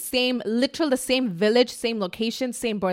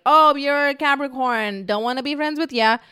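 snobby dismissal; 6 semitones higher, 5 dB louder than usual. Retold or imitated. Astrology snob rejecting a Capricorn, mock snooty. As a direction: sneer at the sign. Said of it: "to be like".

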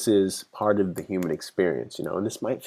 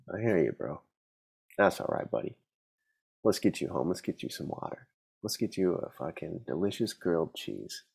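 soft, hushed and kind, like soothing a crying friend; calm a drunk buddy softly; gentle comforting; 7 dB quieter than usual. Retold or imitated. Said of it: "Or would you say".

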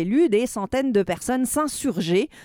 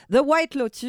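English title in a French accent, slightly higher; 4 semitones higher than usual. Real, not acted. Columnist listing series for amused hosts, French-accented English. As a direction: say the English title as a francophone would. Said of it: "vous avez mon accent anglais".

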